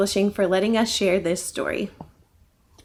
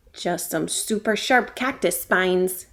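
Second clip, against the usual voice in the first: grumbling; 3 semitones lower than usual. Acted. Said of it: "grumbled Roxy".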